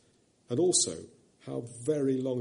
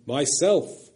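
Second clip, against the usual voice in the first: a louder, brighter ring of joy; loud, clear and glad; 3 semitones higher, 6 dB louder than usual. A narrator's reading. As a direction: ring it out gladly. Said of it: "loud and clear and glad".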